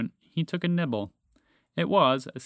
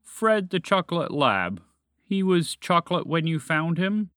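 higher, louder dragon questioning; knowing dragon; 5 semitones higher, 5 dB louder than usual. A narrator's reading. Dragon questions moose about chocolate lab, pointed and loud. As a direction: lay it out pointedly, pitched up.

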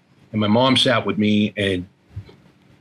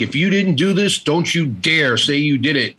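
lightly voiced stern grandmother, higher pitch; retold warning, pitched up on the opening words; old-school grandmother; 4 semitones higher than usual. Grandmother at the cell door warning her grandson, lightly voiced old-school scolding. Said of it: "she's old school".

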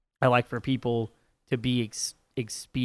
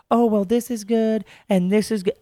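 mock pushy server; 7 semitones higher than usual. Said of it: "somebody's like".

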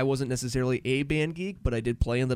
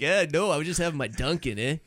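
mock Canadian accent; 2 semitones higher than usual. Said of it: "why we're Canadian now".

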